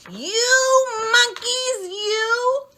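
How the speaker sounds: high, slow, loud scolding; scolding peddler. Acted. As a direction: wag a finger and scold them. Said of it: "he said".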